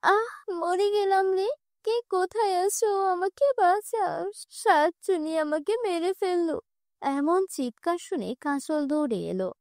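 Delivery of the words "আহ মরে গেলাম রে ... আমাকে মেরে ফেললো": mock cry for help. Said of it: "চিৎকার করতে লাগলো".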